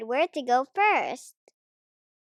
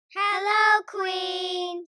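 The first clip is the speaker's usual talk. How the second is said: loud, much higher cheery shout; children shouting; 7 semitones higher, 8 dB louder, slower than usual. A narrator's reading. Children greeting the Queen, loud cheerful shout. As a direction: call out a happy hello. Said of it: "shouted the children".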